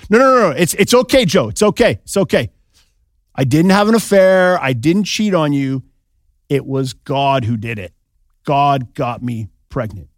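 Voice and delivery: mock-panicked Mary soothing him; frantic reassurance.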